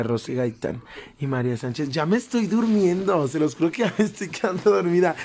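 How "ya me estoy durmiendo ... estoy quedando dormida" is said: sleepy, slightly hoarse voice; drowsy, voice going rough; nodding off. Real, not acted. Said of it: "empiezo a hablar más ronca".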